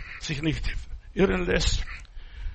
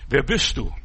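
calling out question; 3 semitones lower, 6 dB louder than usual. Retold or imitated. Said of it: "dann fragte er sich".

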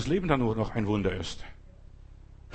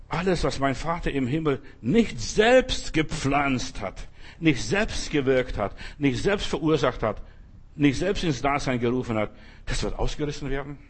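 solemn scripture reading. Acted. Solemn scripture quote, slowed.

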